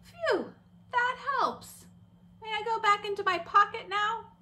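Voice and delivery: a squeaky little puppet, now calm; relieved puppet. Pretend. Puppet Angry tells teacher it feels better, high relieved. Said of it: "Sure you can, Angry".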